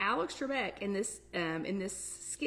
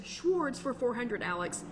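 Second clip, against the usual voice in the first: slurred mock Scottish accent, slow; imitated Scottish slur, S turned to SH; Sean Connery impression; 3 semitones higher than usual. Announcing tonight's category like the skit, imitated Scottish accent. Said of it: "kind of a Scottish accent".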